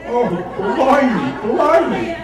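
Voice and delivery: hammed-up British accent, loud and high, laughing; a playful Cockney-style "Oh, blimey, blimey"; mock British accent. Author answering the audience about accents, mock British exclaim. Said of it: "who said it with a British accent?".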